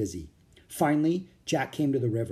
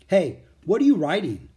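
louder, suspicious call-out; challenging call; 5 semitones higher, 7 dB louder than usual. A narrator's reading. Bearded soldier calling out to Jack, suspicious. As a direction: call over to the boy. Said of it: "someone asked".

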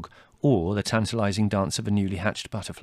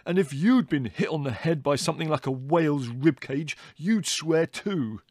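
angry retort; 6 semitones higher than usual. Acted. Brother keeps shouting.

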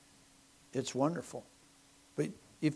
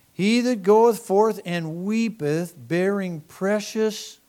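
louder, higher and slow; preached verse; 5 semitones higher, 9 dB louder, slower than usual. Acted. Preacher booms the psalm to his congregation, loud and slow. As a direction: proclaim the verse with full force.

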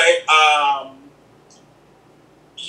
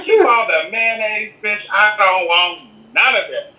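sassy; 2 semitones higher, slower than usual. Retold or imitated. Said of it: "I was like".

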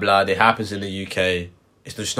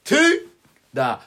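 mock threat; 5 semitones higher than usual. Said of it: "I said".

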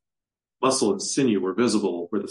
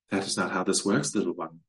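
chiming; 4 dB quieter than usual. Acted. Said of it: "she chimed".

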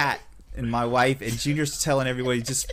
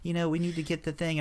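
put-on Southern lady accent; 5 semitones higher, 4 dB quieter, faster than usual. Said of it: "mimicking her voice".

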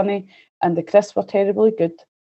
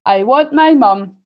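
slow, drawn-out mock howl; mild howl; 3 semitones higher, 5 dB louder than usual. Little princess refusing breakfast eggs, a mild howl. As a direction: howl it lightly, louder and stretched. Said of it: "howled the little princess".

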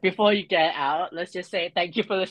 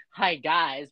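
dismissive hi guys; 2 semitones lower than usual. Shown as a demonstration. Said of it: "but with the tone of saying, "You're done".

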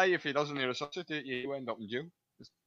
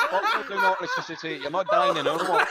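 mock Scottish rescuer; 3 semitones higher, 5 dB louder than usual. Scottish rescuer yelling at the drowning woman, laughing. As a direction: yell it at the rescued old lady.

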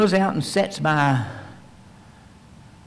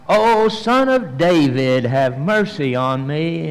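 slow, louder pleading call; louder cry for mercy; 3 dB louder, slower than usual. Acted. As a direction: cry out all the more. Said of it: "He just got louder".

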